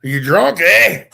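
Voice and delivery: Irish accent as question. Shown as a demonstration. Co-host showing how Irish sounds like a question, Irish accent. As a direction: ask it with a mock Irish lilt. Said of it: "it sounds like a question".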